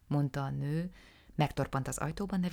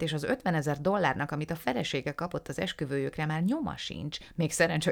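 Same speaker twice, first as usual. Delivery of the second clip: confiding then scandalized, voiced with relish; animated little dealer. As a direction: talk up the dead man's vices with gusto. Ganjin's long account of Jeffrey. (Ganjin élvezettel sorolja Jeffrey bűneit)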